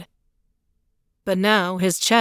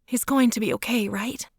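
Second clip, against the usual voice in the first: Claire's voice; 4 semitones higher than usual. A narrator's reading. Claire, anxious question.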